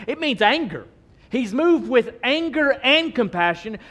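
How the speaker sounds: forceful preaching. Real, not acted. Preacher telling the church of the unclean man, preaching forcefully. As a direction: preach it hard, driving each point home.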